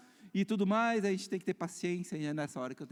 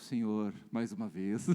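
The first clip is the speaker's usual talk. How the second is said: weary repeated prayer; 8 semitones lower, 4 dB quieter than usual. Acted. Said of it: "aí de novo".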